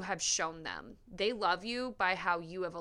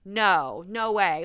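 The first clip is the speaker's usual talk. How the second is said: disbelieving local reaction; 5 dB louder, slower than usual. Retold or imitated. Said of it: "someone tells you a story and you're like".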